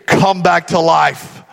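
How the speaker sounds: slow, loud resurrection command; grand command. Acted. Mock of what Jesus didn't say, grand and slow. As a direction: intone it slowly and forcefully. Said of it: "he didn't say".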